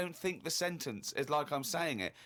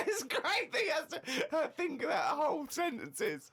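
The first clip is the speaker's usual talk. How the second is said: laughing; 10 semitones higher than usual. Real, not acted. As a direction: speak through real laughter. Laughing at the diary.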